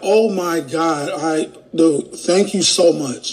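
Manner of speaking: play-acted teary, overwhelmed, choked-up gratitude, very slow. Acting out someone thanking a helper: imitating tearful thanks. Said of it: "they start tearing up".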